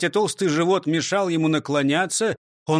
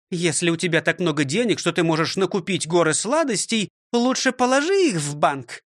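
higher, scolding schoolmistress voice; stern old teacher; 5 semitones higher than usual. Acted. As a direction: lecture him like a strict teacher. (строгая учительница)

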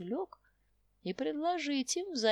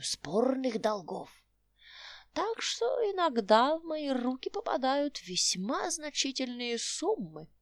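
put-on old prospector. Old man boasts.

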